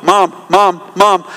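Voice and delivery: insistent, evenly repeated nagging; lightly mimicked child calling for a parent; pestering child. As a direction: imitate a kid who will not stop calling. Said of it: "they come behind you and they're like".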